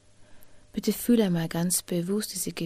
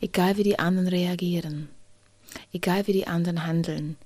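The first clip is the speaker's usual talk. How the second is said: tender reassurance. Pretend. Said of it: "und sag diesem Kind".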